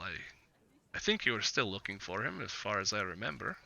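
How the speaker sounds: lightly voiced Vistani trader, measured and hesitant; Vistani businessman. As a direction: play a guarded businessman, feeling out each phrase. Game master voices Vistani businessman.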